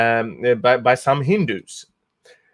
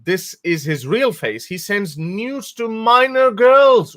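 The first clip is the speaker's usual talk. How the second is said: mock troll read; 8 semitones higher than usual. Reading troll's tweet mockingly.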